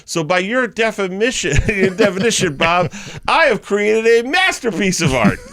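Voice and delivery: high, grand mock declaration; triumphant proclamation. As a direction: crow it to the teacher like a victory speech. Retold triumphant rebuttal to teacher.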